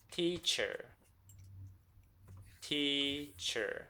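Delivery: Teacher split into two drawn-out halves, tea, cher; Teacher broken up for counting; syllable by syllable. Shown as a demonstration. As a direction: pause between the syllables of Teacher. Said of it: "How many?".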